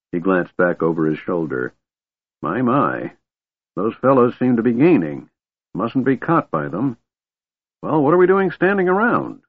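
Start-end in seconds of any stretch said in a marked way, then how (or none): 2.4-9.4 put-on high-pitched fretting old man; fret, climbing to a high impatient question; fussy old man. A narrator's reading. Old man sees pursuers gaining, fussing. Fizban fusses about pursuers.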